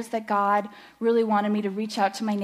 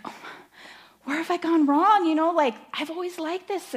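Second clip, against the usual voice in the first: retold dismay; 7 semitones higher than usual. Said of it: "I'm just like".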